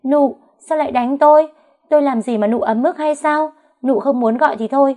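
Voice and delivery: high, loud put-on wail of a wronged woman; loud theatrical howl, pitch way up; fake wailing cry. A narrator's reading. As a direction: shriek it out as if she was the victim. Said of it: "rồi gào lên".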